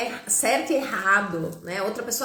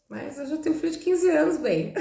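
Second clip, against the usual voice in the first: higher and faster, amused at her own age; smiling disbelief, higher and fast; playful brag; 5 semitones higher than usual. Real, not acted. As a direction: say "quinze anos" high and quick with a grin. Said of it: "Eu tenho essa carinha aqui, ó".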